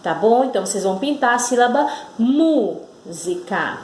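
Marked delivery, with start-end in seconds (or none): 2.2-3.8 "música" broken after a firm mú; stressed syllable demo. Shown as a demonstration. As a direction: say "música" as MÚ, pause, si-ca. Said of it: "sílaba mu com mais força".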